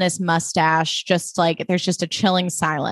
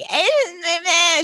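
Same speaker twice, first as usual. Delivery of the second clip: imitated whiny crying noises; mocking wordless whimper; mock whining; 10 semitones higher, faster than usual. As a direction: mimic a whiner with wordless bleats. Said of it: "She's, like, whining".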